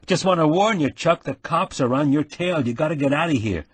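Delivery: put-on brash young Harry. Nick bursts in on the wounded man, high and excited. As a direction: play the concerned buddy, eager.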